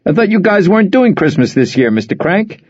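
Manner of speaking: high, loud, teasing call; rather loud. Acted. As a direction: call it out for the crowd. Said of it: "he said rather loudly".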